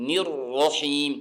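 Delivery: slow نر رحیم with a clear zer; correct pronunciation. Shown as a demonstration. Teacher demonstrating the right vowel, slow and careful. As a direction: say نر رحیم slowly, zer clean. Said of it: "صحیح pronunciation اور تلفظ ہے".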